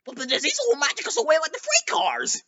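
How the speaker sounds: high, fast fearful whisper; scared twin engines whispering; frightened whisper. A narrator's reading. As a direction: whisper it in horror. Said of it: "aghast and horrified".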